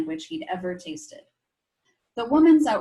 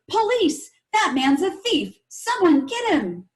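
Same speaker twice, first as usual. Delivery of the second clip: high, loud call for the police; shouted; 9 semitones higher, 7 dB louder than usual. A narrator's reading. Angry man shouting for police down the street, high and loud. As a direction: yell after the thief to alert everyone. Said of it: "the man shouted".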